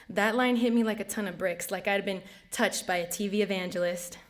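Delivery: rhythmic spoken word, each phrase launched then falling away; spoken-word poem. Acted. Poet offering testimony to the audience as church, spoken-word recitation. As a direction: perform it like testimony in verse.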